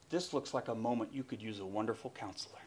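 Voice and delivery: soft, low counseling tone; quiet Jesus quote. Acted. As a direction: offer it gently, well under full voice. Preacher voices Jesus gently counseling.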